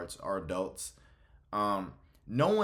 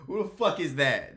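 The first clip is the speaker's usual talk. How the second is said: high, mock-incredulous quote; pitched-up voice of baffled disbelief; imitated bewildered reaction; 6 semitones higher, 4 dB louder than usual. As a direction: imitate a baffled double take. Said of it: "He's like".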